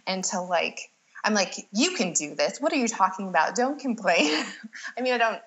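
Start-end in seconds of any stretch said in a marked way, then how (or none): 1.7-4.4 a hint of a tough coach, mostly in her own voice; lightly mock a strict doula pushing her clients; mock drill sergeant. Doula to her pushing client, a light mock of strictness. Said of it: "I didn't tell them not to complain".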